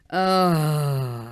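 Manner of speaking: long, drawn-out sighing groan; exasperated groan. Real, not acted. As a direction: let out a long, weary "uh". Exasperated sigh before her rant.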